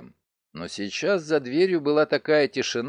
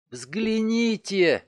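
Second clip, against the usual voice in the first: horrified moan; 6 semitones higher, much slower than usual. Acted. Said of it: "в ужасе простонала мадам Но".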